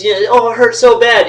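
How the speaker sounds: imitating a friend in pain. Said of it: "He's like".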